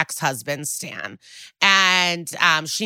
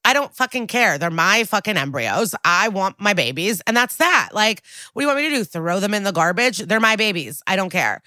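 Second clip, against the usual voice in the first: hammed-up defiant mother, fast in bursts; retold outburst; 3 semitones higher than usual. Host acts out the angry patient snapping at detectives, mock furious. Woman yells about her embryos.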